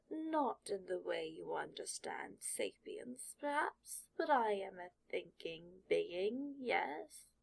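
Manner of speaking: put-on slow, patient old hat; sorting hat voice. Sorting hat answers Draco's unspoken question, slow and measured. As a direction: explain gently, taking its time.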